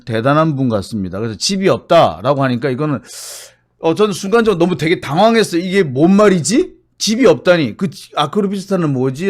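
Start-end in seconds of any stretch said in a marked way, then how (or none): 5.6-7.8 baffled. Retold or imitated. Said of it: "라는 생각도 들고".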